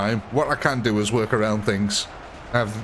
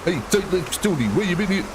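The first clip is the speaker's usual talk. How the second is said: cartoon gangster voice with swooping tune; Simpsons mobster; 2 semitones higher than usual. Streamer quoting the cartoon mob, mock gangster voice. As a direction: put on a hammed-up American mob accent. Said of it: "the mob from The Simpsons".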